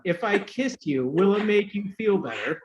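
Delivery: the kiss line again, laughing through it; repeated with a laugh. Retold or imitated. Re-telling his kiss offer to friends, laughing. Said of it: "I'll repeat them".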